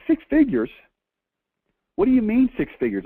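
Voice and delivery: high, loud disbelief; mock outrage at six figures; incredulous. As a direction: scoff at the vague answer. Incredulous reply to vague answer.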